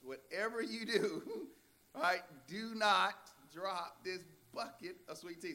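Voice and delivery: a mother's warning broken by laughter; laughing mock warning. Pastor retelling a mother warning her daughter, laughing.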